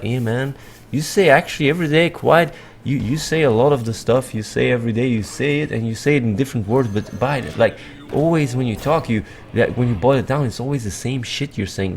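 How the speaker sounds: a hint of a nagging listener's voice; imagined critic. Imagined viewer challenging the speaker's repetition, lightly voiced critic. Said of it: "some people might say, like".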